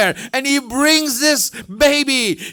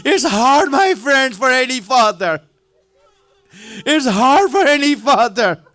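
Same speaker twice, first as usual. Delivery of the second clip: crying. Real, not acted. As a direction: voice breaking with tears. Preacher breaking down over father.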